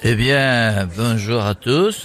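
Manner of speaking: low, slow politician's greeting; mock party-leader impression; Eric Ciotti. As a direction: greet the room ponderously. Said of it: "on a Eric Ciotti avec nous".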